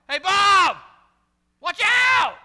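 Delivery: full-force high warning shout; yell. Shown as a demonstration. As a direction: yell to stop someone stepping into traffic. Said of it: "I'm gonna yell".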